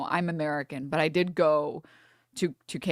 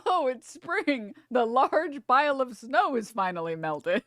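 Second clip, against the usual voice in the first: slow, higher, mock-cheerful proclamation; mock announcement; 5 semitones higher than usual. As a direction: announce it like good news, ironically. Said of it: "It'd be like".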